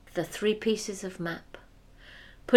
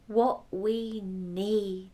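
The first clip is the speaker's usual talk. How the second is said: put-on slow old woman; much slower than usual.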